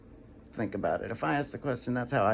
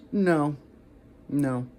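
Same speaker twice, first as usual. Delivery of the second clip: medium no; 2 semitones higher, 4 dB louder than usual. Shown as a demonstration. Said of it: "Medium no would be".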